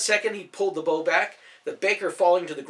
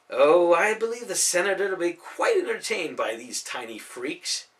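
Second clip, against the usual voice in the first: sneering, menacing villain voice; gloating villain; 4 semitones higher, 4 dB louder than usual. Acted. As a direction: savour the capture with contempt. Villain Krampus gloating over captives.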